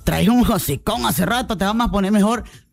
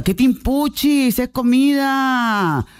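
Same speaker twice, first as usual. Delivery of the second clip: mock scolding; 4 semitones higher, much slower than usual. Real, not acted. Host mocks picky eaters.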